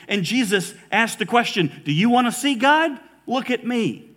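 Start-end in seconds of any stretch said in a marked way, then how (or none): 1.8-4.1 ringing preacher call. Retold or imitated. Preacher voicing Jesus, rising.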